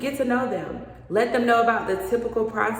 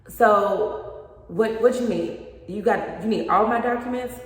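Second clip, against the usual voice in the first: mock confused client; 4 semitones higher, 4 dB louder than usual.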